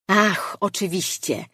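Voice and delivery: a sudden realization, called out brightly; exclaiming. Acted. Mirar realizes Arley can teach the boy, exclaiming. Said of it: "Wykrzyknął Mirar".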